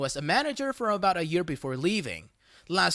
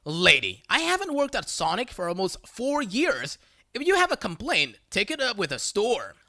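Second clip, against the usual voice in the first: annoyed; 2 semitones higher than usual. Retold or imitated. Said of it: "Me, clearly annoyed".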